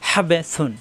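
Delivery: mid-throat squeeze on the হা of হাবে; throaty ha. Shown as a demonstration. Teacher repeats with correct articulation, throaty হা in হাবে. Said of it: "মাখরাজ ঠিক রেখে উচ্চারণ".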